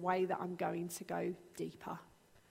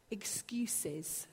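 whispered; 2 semitones lower, 6 dB quieter than usual. Real, not acted. Dismissive whisper on excuses.

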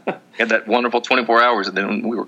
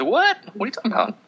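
much higher incredulous squeak; mock disbelief; 12 semitones higher, 3 dB quieter, faster than usual. Reacting to being banned from House of Pies, mock shock. Mock outrage at imagined ban.

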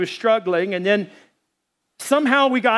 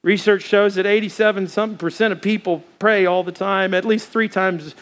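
closing prayer. Acted. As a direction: pray over the congregation.

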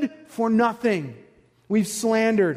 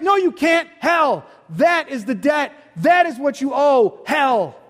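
forceful shout. Real, not acted. Preacher answering sinner.

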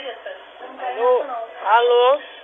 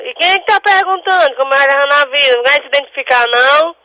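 higher, fast, insistent challenge; real exasperation; 5 semitones higher, 7 dB louder, faster than usual. Real, not acted. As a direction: rattle off an impatient demand. Demands the caller identify himself.

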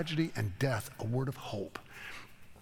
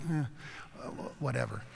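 shrugging indifference; 5 dB quieter than usual. Retold or imitated. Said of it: "It was like".

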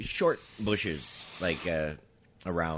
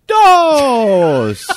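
high, blaring neighbor impression; loud Spanish counting; 18 dB louder than usual. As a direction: call the number out piercingly, mimicking her. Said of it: "in loud Spanish".

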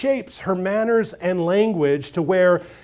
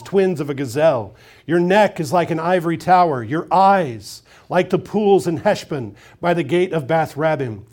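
solemn scripture reading. Acted. Preacher reading Song of Songs to congregation, solemn and full-voiced. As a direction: read it as the lover singing to his bride.

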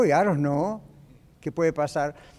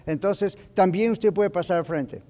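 altar call demo. Shown as a demonstration. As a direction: roll through the altar-call list with rising force. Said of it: "uno puede decir".

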